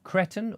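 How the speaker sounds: "cretonne" said CRET-on, short e; pronunciation option. Shown as a demonstration. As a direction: say "cretonne" with first syllable like "bet". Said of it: "A type of fabric pronounced".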